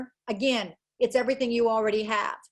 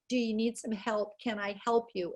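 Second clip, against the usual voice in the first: softer, gentle teacher voice; gentle offer of help; 6 dB quieter than usual. Shown as a demonstration. Teacher gently asking a struggling child, softly. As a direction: kneel to eye level and softly offer help.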